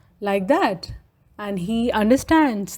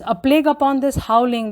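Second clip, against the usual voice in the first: mock shout; 4 semitones higher, faster than usual. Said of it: "he is shouting at these".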